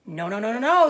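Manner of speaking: goose protesting. Acted. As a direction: honk a panicked no. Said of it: "said the goose".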